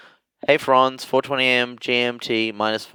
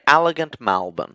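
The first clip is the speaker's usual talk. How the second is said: Melbourne vowels, "Malbourne" for Melbourne; Melbourne accent. Shown as a demonstration. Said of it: "in Melbourne they say elegant".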